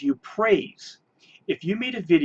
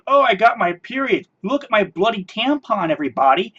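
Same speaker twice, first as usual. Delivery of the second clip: sing-song mocking voice, higher; mock-proud announcement, higher pitch; mocking quote; 4 semitones higher, 4 dB louder than usual. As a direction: parody a showy vlogger. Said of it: "But if you make a video saying".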